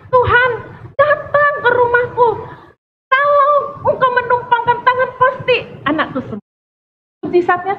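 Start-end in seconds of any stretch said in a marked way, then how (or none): 0.1-6.5 high, urgent begging call; urgent plea. Acted. Preacher playing Jairus begs Jesus, urgent and high.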